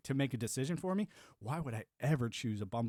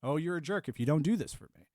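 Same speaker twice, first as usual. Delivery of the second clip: mocking quote; 2 semitones higher, 4 dB louder than usual. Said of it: "you know, saying".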